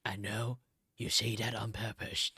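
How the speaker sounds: unvoiced little whisper; hushed aside. Real, not acted. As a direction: breathe it to chat like a secret.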